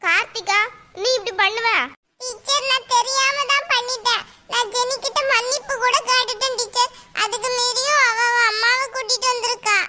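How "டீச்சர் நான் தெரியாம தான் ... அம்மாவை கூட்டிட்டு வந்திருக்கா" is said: high-pitched put-on child voice; pleading schoolgirl. Pupil explains her accident to the teacher, pleading child voice. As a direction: complain to the teacher like a small kid.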